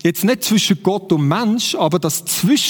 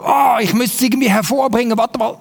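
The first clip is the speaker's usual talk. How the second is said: hurried, mock-straining tree voice; 3 semitones higher, faster than usual. Preacher plays a tree bearing fruit, mock straining. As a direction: play a tree effortfully trying to produce. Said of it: "So irgendwie so".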